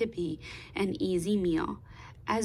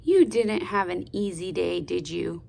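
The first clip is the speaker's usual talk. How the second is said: soft mommy voice; 2 semitones lower than usual. Acted. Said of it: "Mommy asked in a soft mommy voice".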